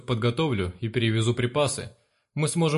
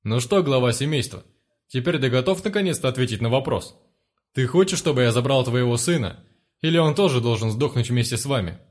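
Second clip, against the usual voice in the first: a hint of mock-polite menace; louder, taunting thug boss; 3 dB louder than usual. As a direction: gang leader taunting the broken father. One-eyed questions the father.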